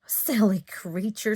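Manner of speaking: whispered scolding. Acted. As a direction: hiss it like a cross little ant. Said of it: "scolded one of the ants".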